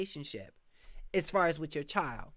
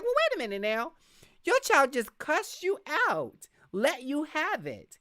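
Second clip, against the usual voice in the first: a mock-indignant neighbour calling out a parent; indignant disbelief; 6 semitones higher, 4 dB louder than usual. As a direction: raise the pitch and drag out the outrage. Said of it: "And you'd be like".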